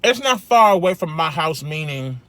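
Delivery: talking with a mouthful of food; words around a bite of food; mouth full. Real, not acted. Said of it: "I hate talking with food in my mouth".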